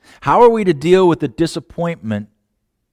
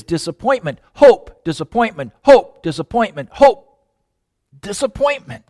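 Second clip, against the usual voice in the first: hope up, disappointment down; 5 semitones higher than usual. Acted.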